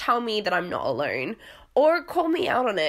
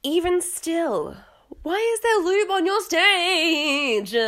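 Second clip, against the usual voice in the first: incredulous question; 9 semitones higher, slower than usual. Retold or imitated. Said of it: "I was like".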